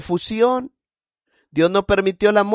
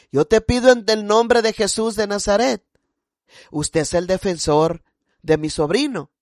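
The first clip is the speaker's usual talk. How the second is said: pleading prayer. Retold or imitated. Retold plea to God for nephew.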